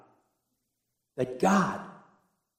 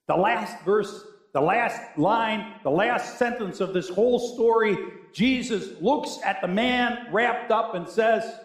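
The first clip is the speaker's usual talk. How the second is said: higher, deliberate build-up; measured pulpit emphasis; emphatic preaching; 7 semitones higher than usual. Real, not acted. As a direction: build insistently toward the quote. Preaches with force.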